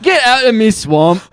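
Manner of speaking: a hint of a rough Shrek accent; lightly voiced Shrek. Trying out Shrek for the podcast, a light ogre voice. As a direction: ham up the ogre a little. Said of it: "Is that how he talks?".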